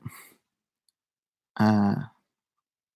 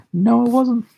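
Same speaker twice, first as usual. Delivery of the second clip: mock denial; 12 semitones higher, 3 dB louder, slower than usual. Mocking a viewer's denial.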